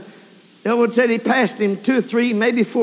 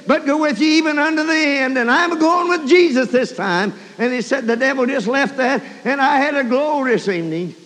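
raised, quick preacher's delivery settling down; fervent preaching; 5 semitones higher, 3 dB louder than usual. Real, not acted. Preacher retelling a testimony to the congregation, fervent.

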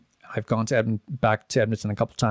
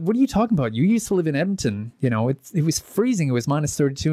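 mock incredulous friends; 5 semitones higher, faster than usual. Friends mocking him, retold.

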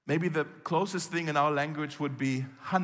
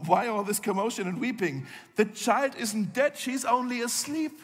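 lightly voiced Jesus calming the mourners; mild surprised reassurance; puzzled Jesus; 7 semitones higher than usual. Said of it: "went inside and asked".

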